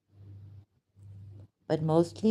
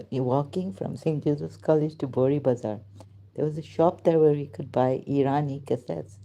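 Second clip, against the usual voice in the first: ordinary talk, nothing marked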